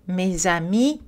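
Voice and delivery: "Mes amis" with clear a and i; "Mes amis", rising at the end; clear French A and I. Shown as a demonstration. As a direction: give "amis" crisp full vowels. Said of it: "avec de l'énergie et de la clarté".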